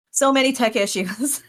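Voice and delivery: exasperated lament. Real, not acted. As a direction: say "So many tech issues" up high, lamenting. Repeats lament two contrasting ways.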